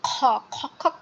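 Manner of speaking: খ and খক খক as a mock cough; imitated cough. Shown as a demonstration. Teacher likens the letter to coughing, cough-like খক খক. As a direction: hack out খ like a small cough. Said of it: "আমাদের যেমন কাশি লাগে".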